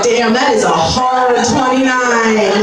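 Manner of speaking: slow unimpressed stranger voice; slow mock stranger. People doubting a forty-year-old's age, slow and judging. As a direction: drag it out, judging. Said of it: "be like".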